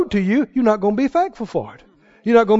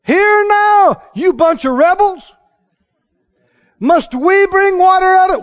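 high, loud, angry Moses berating the people; Moses scolding; 9 semitones higher, 5 dB louder, slower than usual. Retold or imitated. Moses yelling at the thirsty people, angry. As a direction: bellow at the rebels. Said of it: "And what did Moses do?".

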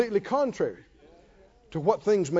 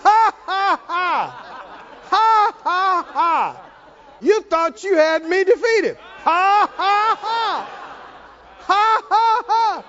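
high, loud shouted mocking ha ha; taunting laughter; 10 semitones higher, 3 dB louder, slower than usual. Preacher taunting the defeated devil, shouted mocking laughter.

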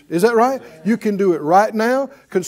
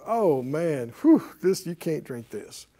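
mock disgust; 5 semitones lower, 7 dB quieter than usual. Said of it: "somebody tasted it and went".

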